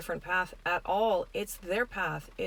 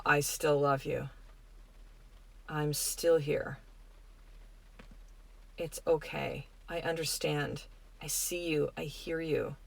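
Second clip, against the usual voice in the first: tender reassurance; 3 semitones lower, 5 dB quieter, slower than usual. Pretend. Voicing love to a hurting person.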